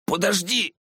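high desperate plea, far off; desperate cry. A narrator's reading. Hero in nightmare calling out, high and pleading.

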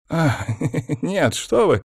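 high nervous titter; tittering, voice jumping up; giggling. A narrator's reading. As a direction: giggle through a high-pitched denial. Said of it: "хихикнул Вяземский".

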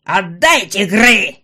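loud, very slow, stressing Гры; insist, drawing out «Гры»; demanding yell. A narrator's reading. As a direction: goblin mother demanding the child back. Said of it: "требовательно протянула руки".

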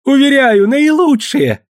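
a groveling merchant pleading in falsetto; high thin plea to buy. Acted.

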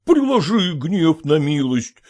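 mild, pleading tearful voice; a touch of weeping, begging forgiveness. Acted. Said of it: "сказал он плачущим голосом".

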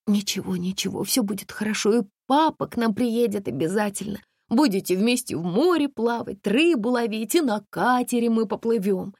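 gentle calming mother; soothing. Acted. Mother soothing her crying son. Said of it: "успокаивала сына Катя".

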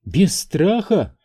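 high, slow incredulous outburst; exploding. A narrator's reading. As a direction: throw his words back at him. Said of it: "взорвалась Энн".

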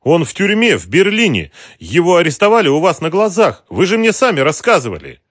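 high, loud agitated protest. A narrator's reading. Mara protesting to the thugs, high and agitated. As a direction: insist desperately on what they already know. Woman pleading with intruders.

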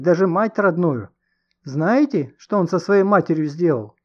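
high, loud, heated tirade; hysterical denunciation. A narrator's reading. Distraught woman exposing man to the crowd, heated. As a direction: denounce him to everyone listening.

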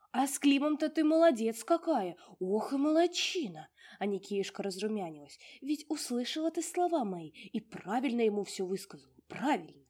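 high, loud fussy house-spirit voice; a tiny old domovushka fussing over her mistress; high bustling little house spirit. Acted. Domovushka praising.

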